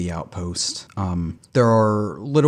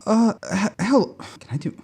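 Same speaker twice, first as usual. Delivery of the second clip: put-on old lady voice; 11 semitones higher than usual. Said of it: "Can you do a lady voice?".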